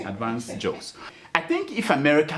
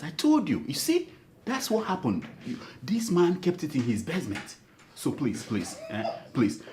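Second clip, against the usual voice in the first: hushed, pleading apology to his wife, fading quieter and quieter; mock emotional plea; 4 dB quieter than usual. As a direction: beg Mamudoka softly not to divorce you, almost whispering. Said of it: "I kind of get emotional about the issue".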